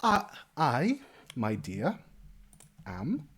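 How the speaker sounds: high chattering halfling landlady; motherly innkeeper. Acted. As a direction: introduce yourself with fussy warmth. Innkeeper introduces herself.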